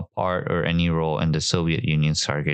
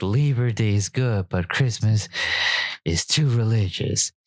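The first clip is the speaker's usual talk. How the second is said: higher-pitched imitation Soviet accent; mock Soviet accent; 3 semitones higher than usual. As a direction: put on a Soviet kid's accent. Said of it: "can I do the accent?".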